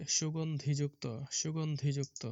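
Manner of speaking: সুগন্ধিযুক্ত said syllable by syllable as su-gon-dhi-juk-to; model pronunciation. Shown as a demonstration. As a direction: spell out সুগন্ধিযুক্ত for young pupils. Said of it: "তাহলে শব্দটি কি হবে?".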